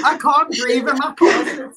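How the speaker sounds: laughing, short of breath; gasping through laughter; laughing breathlessly. Real, not acted. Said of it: "Stop making us laugh".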